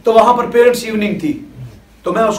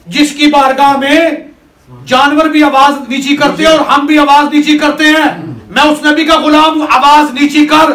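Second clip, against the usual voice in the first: raised, louder stern command; commanding rebuke; 4 semitones higher, 4 dB louder than usual. Acted. Companion commanding the lion firmly, raised and loud.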